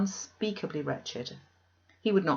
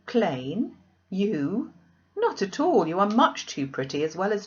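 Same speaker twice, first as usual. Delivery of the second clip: incredulous; 3 semitones higher, 4 dB louder than usual. Acted. Diana refuting Jane's self-criticism.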